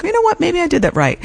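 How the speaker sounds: high, surprised little voice of a proud student; hopeful student. Retold or imitated. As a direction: pipe up, pleased with yourself. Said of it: "you're like".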